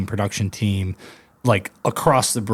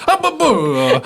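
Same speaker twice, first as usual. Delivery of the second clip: laughing mock husky babble, higher and louder; husky with Italian accent; 8 semitones higher, 5 dB louder, slower than usual. Still cracking up to cohosts, mock husky babble. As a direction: repeat the dog's Italian-ish yowl through laughter. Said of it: "Just goes".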